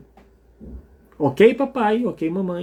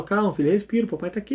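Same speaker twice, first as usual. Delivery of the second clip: soft, fading soothing words; soothing a crying baby; 6 dB quieter, faster than usual. Shown as a demonstration. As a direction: hush the baby gently. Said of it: "O Aura chora, eu falo".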